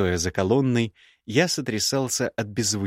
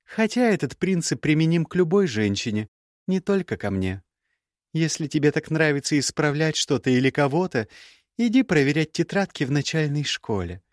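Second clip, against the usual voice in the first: put-on young woman's voice pitched higher, cool and cutting; higher, cool scornful young woman; Gerda's voice; 6 semitones higher than usual. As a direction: play the proud, scornful ex-bride.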